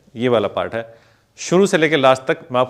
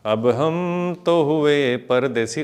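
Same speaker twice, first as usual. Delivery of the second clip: slow lyric quote; 3 semitones higher, much slower than usual. Shown as a demonstration. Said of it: "कौन से वाला?".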